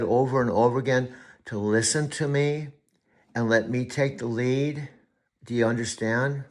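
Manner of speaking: calm down and speak gently. Real, not acted. Coach speaking privately and gently to his AI. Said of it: "I get emotional".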